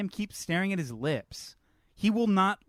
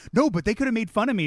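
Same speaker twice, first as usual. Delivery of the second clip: whiny; 5 semitones higher, 4 dB louder, faster than usual. Retold or imitated. Mocking the fragile captain's whining.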